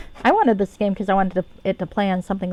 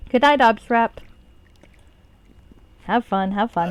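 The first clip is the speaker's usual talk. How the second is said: lightly put-on old lady accent, higher and louder; a hint of the old lady who blows things up; mock old-lady accent, slightly higher and louder; Olga accent; 3 semitones higher, 4 dB louder than usual. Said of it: "The Olga, the old lady who blows shit up accent".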